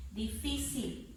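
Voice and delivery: "Difícil" slowly, weight on FÍ; measured "Difícil", falling after FÍ; stressed syllable demo. Shown as a demonstration. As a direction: lean on FÍ in "Difícil". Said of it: "identifico la fuerza de voz".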